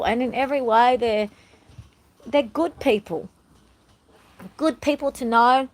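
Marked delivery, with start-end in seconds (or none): 2.3-5.7 talking with hair in mouth. Real, not acted. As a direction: speak around a hair in the mouth. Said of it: "Sorry, I got hair in my mouth".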